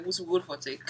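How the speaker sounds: Sierra Leone Krio accent. Shown as a demonstration. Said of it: "We would just be like".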